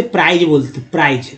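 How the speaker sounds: "प्राइज" ending in a voiced j/z sound; common mispronunciation. Shown as a demonstration. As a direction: show the mistaken "प्राइज" with a buzzed ending. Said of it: "गलत उच्चारण करते हैं". ("प्राइज" अंत में ज की आवाज़ से)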